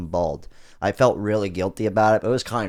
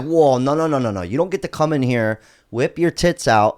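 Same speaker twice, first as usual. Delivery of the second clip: louder, higher, an indignant "whoa, no, no"; mock outraged protest; 3 semitones higher, 4 dB louder than usual. Telling his girlfriend off for bringing up money topless, mock outrage. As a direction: replay your own over-the-top objection.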